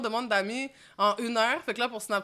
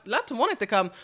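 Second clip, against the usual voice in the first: ordinary talk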